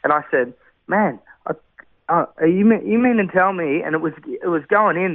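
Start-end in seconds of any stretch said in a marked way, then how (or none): 0.9-3.8 retold bewilderment. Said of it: "I couldn't get it with my head".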